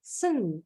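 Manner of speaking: "sen" with no T sound; silent T. Shown as a demonstration. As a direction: say "sen" as a word ending, T left silent. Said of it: "the T is silent".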